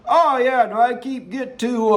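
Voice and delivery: mock politician asking for perks; imitating Cuomo. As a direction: act out a governor bargaining, no real accent. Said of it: "I don't have a horrible New York Italian accent".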